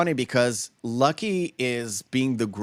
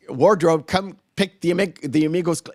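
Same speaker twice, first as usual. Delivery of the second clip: lightly voiced old-timey studio man; a hint of an old Hollywood voice; 4 semitones higher, 3 dB louder than usual. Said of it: "that old-timey voice going".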